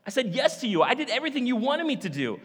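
high, loud anguished prayer; distraught Mary. Retold or imitated. Mary pleading with God over her shattered plans, anguished. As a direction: cry out to God in protest. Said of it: "She's thinking".

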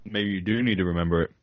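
talking while eating fries; mouth full. Real, not acted. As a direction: speak around a mouthful. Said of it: "my mouth sounds full sometimes. I'm eating French fries".

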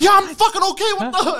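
high, loud annoyed shout; irritated yell. Retold or imitated. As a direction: bark back at her, annoyed. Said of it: "And I'm like".

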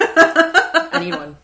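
high, slow, laughing plea; gushing excitement. Real, not acted. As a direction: squeal it out with delight. Gushing over a fan fiction.

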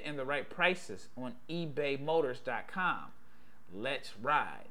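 upbeat host-read sponsor spot. Acted. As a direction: sell it like a friendly podcast ad.

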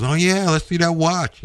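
imitating dad. Dad in doorway demands watch.

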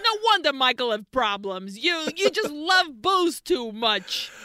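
mock scolding New York dad; New York accent. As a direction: blame her in a put-on New York accent. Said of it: "straight up from New York".

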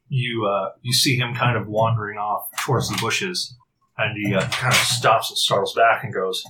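usual speaking voice

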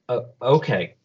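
hesitant, falling acceptance; sheepish assent. Acted. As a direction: give in meekly after a small hesitation. He sheepishly gives in.

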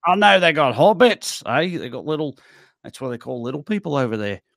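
loose attempt at New Zealand speech; Kiwi accent. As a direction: chat like a Kiwi laundromat customer. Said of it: "Kiwi Laundromat".

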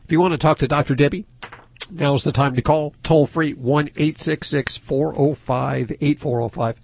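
radio announcer read. Acted. Radio host reads call-in number.

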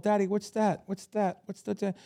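lightly voiced kid tugging at daddy; curious little kid. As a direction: play a wide-eyed ten-year-old pointing at everything. Little kids at Yankee Stadium.

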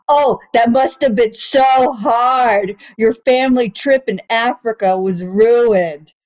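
slow, mock-pitying drawl; sarcastic sympathy. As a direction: fake sorrow for a spoiled holiday. Mocking her safari complaint.

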